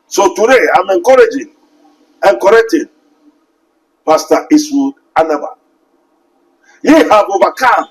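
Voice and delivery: rousing pulpit cadence; fervent preaching. Acted. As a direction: preach it out to the congregation. Preaching at full force.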